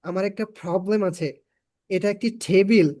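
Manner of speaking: প্রবলেম and টেবিল over-anglicised inside Bengali; mock showy English sounds on প্রবলেম and টেবিল; misplaced English pronunciation. Shown as a demonstration. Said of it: "বাংলা বলার সময় বলবেন না".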